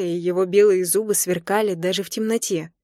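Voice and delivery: usual speaking voice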